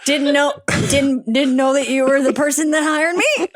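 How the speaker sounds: laughing while talking. Real, not acted. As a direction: giggle through the sentence. Laughing at the job story.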